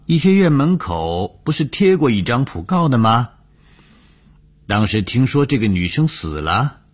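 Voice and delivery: high-pitched, animated doctor pressing the point; insistent doctor. Acted.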